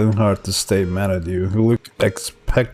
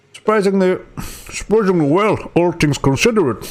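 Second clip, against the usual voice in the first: put-on higher, a stab at a British accent; attempted British accent; 7 semitones higher than usual. Son answers the doctor in a shaky British accent. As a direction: try a British accent and fumble it. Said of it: "I can't even do it".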